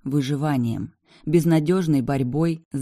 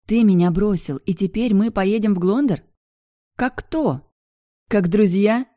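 high, louder indignant questions; angry reproach; 6 semitones higher, 5 dB louder than usual. A narrator's reading. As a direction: throw the questions at him in anger. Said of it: "Девушка злилась или делала вид". (возмущённо, громко и высоко)

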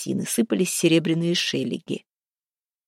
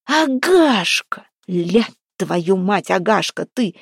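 sudden bellow; 3 dB louder, much slower than usual. A narrator's reading. Харапун recognises the captive as his wife, sudden bellow. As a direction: roar the name out slowly, then curse. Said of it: "и вдруг рявкнул".

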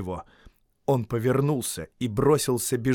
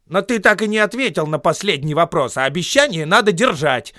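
higher, louder insistent call; insisting; 7 semitones higher, 8 dB louder than usual. Acted. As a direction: press the point firmly. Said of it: "настаивал Бильбо".

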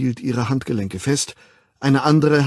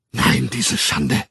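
slow, low, harsh end to a tirade; wütende Klage; 8 semitones lower, much slower than usual. A narrator's reading. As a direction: spit out the shame slowly. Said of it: "schrie sie". (langsam und tief, voller Zorn)

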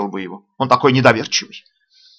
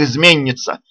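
high, loud denunciation; outraged husband crying betrayal; accusing exclamation; 5 semitones higher, 5 dB louder, slower than usual. A narrator's reading. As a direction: hurl the accusation at your wife. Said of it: "устремил убийственный взгляд ... и воскликнул".

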